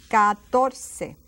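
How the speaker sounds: "Catorce" loud, as ka-TOR-seh; hard K opening "Catorce", S in the last syllable; K and S sounds. Shown as a demonstration. Teacher demonstrating the C rule, "Catorce" with K then S. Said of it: "takes the place of a K sound".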